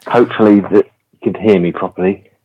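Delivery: muffled, like inside a bucket; hollow, muffled sound; bucket on head. Real, not acted. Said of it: "sound like you're in a bucket".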